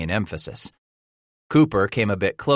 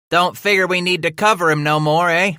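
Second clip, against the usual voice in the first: rough frontiersman voice; 10 semitones higher, 6 dB louder than usual. Acted. Second man taunts captive.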